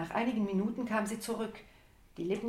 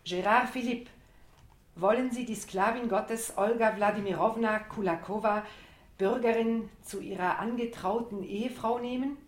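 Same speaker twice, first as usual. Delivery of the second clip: loud, higher ceremonial question; solemn priest; 3 semitones higher, 5 dB louder than usual. Pretend. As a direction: intone the vows to the ghost. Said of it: "Du spielst den Priester".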